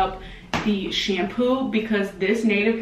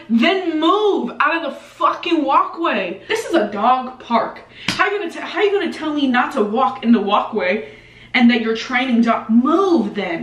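sassy retort; 3 semitones higher than usual. Retold or imitated. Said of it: "I'm like".

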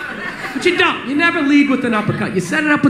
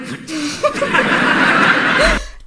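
whisper yelling; 4 semitones higher than usual. Shown as a demonstration. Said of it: "that whisper yelling?".

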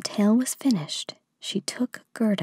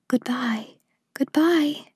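higher, called-out farewell; calling out; 6 semitones higher, slower than usual. A narrator's reading. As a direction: call a goodbye after someone leaving. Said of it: "called the prince and princess".

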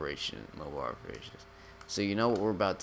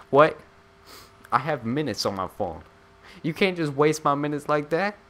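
loud, higher indignant rant; mock outrage; 5 semitones higher, 6 dB louder than usual. Gamer ranting at a silent phone call, hammed-up loud outrage. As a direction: complain like your minutes were stolen.

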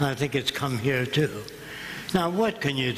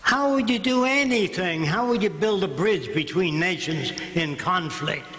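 pressing question; 3 semitones higher than usual. Retold or imitated. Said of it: "Walk over to any politician and say".

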